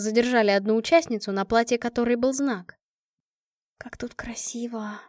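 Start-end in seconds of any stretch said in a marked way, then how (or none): 3.8-5.0 breathy hushed whisper, slowed. A narrator's reading. Света шепчет подруге, восхищаясь залом: тихий шёпот. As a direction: breathe the words in awe. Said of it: "шепнула Света".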